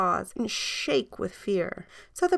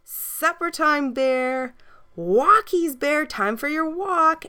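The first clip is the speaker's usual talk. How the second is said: put-on 1 girl calling dog; 8 semitones higher, 3 dB louder, slower than usual. A narrator's reading.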